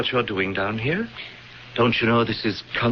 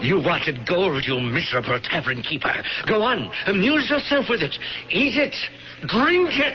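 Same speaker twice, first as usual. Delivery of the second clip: 1 cruel taunting; 6 semitones higher than usual. Acted. Villain taunting trapped man.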